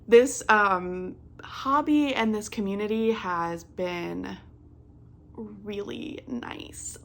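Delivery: choked up while thanking the community; getting emotional. Real, not acted. Thanking her community, real tears starting, choked up. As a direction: voice catching, the last words slowing and dropping away. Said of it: "I don't know why I'm getting emotional".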